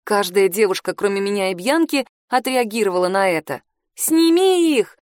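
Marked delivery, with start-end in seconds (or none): 3.9-5.0 high, slow shouted cheer from the crowd; a girl in the crowd yells it, slow and high. Acted. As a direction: call it out drawn out and high. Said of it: "— крикнула она".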